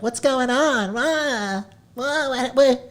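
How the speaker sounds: high, flustered stammer; hammed-up panic, pitched high; mock panic. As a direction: sputter like you're caught. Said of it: "and they're like".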